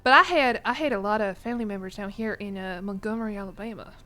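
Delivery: putting on a southern US accent; mild demo of a southern accent. Shown as a demonstration. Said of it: "give us my strongest southern accent".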